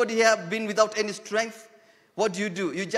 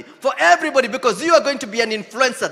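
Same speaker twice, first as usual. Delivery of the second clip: loud, higher preaching climax; preaching shout; 4 semitones higher, 8 dB louder, faster than usual. Real, not acted. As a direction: lift it to a shout for everybody. Preaching at full force.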